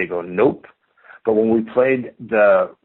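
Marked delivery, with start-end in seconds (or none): 0.2-0.7 mock-stupid reply, lifting at the end; dopey. Re-enacting his answer to his friend, dopey. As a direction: say it like a clueless dope. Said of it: "said it really stupid, like, dopey".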